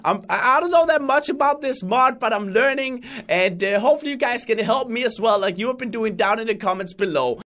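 put-on his old excited channel persona; old Crainer voice. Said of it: "a clip from when I did the Crainer voice".

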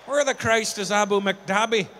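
a hint of an Irish accent, puzzled; lightly done Irish bloke asking directions; mock Irish. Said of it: "to make it sound more local".

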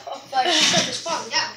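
laughing yelp. Real, not acted. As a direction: laugh and squeal as food falls. Noodles falling, laughing.

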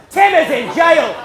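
high, slow, full-volume repeat; exasperated shout. Retold or imitated. Dying dad resuming rant at son, shouting. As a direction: back into character, bellowing in outrage.

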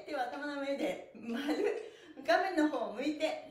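instructions broken by laughter, slow; laughing through instructions. Real, not acted. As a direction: giggle while cueing the pose. Laughing while giving instructions. (笑いながら指示)

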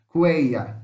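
Cueia with the vowels run together in one syllable; demo pronunciation. Shown as a demonstration. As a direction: say Cueia with all vowels joined. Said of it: "tudo junto". (pronúncia de Cueia, tudo junto)

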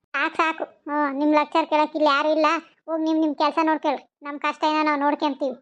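mildly testy dismissal; snappish irritation. Acted. Woman telling neighbours to mind their business, mildly snappish. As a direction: cut them off with short temper. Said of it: "ಯಾಕಂಗ ಎಗರಾಡ್ತೀಯೇ?".

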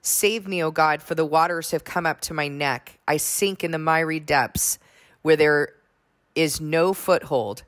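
measured, solemn psalm reading; scripture reading. Acted. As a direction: read it like a prayer before the congregation. Reads the psalm aloud.

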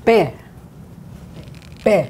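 "Pe" said with a strong aspirated P; hard P. Shown as a demonstration. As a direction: pop the P. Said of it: "a hard P".

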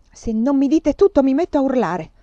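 on the edge of screaming; desperate threat. A narrator's reading. Scarlett threatens Tony to make him tell, desperate.

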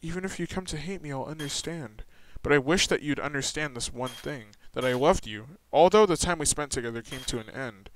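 soft, sincere confession of love; tender farewell. Acted. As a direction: speak gently like a last goodbye. Voicing tender farewell memory.

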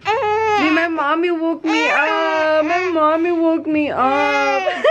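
mock whiny little complaint; voicing the baby. Mother speaking for her crying baby, playful mock complaint. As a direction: lightly play a baby telling on mommy. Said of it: "Tell everyone what happened".

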